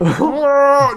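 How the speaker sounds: loud, high vocal roar of a car; imitated car blast. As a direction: honk and roar through like a car. Imitates car blasting through light.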